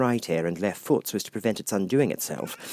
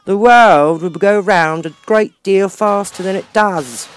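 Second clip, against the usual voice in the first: higher, louder, rasping growl of a rude duchess; hoarse growl; 10 semitones higher, 12 dB louder, slower than usual. A narrator's reading. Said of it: "said the Duchess in a hoarse growl".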